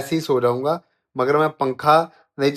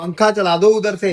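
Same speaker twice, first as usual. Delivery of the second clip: raised, higher voice; insistent demand; 5 semitones higher, 5 dB louder than usual. Real, not acted. Husband demanding wife switch on the fan, insistent. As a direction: order it loudly across the room.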